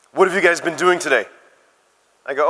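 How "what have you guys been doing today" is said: lightly put-on American barista chat; mock American accent. Barista making small talk with customers, mock American accent. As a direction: imitate a chatty American girl. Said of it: "this is my best American accent".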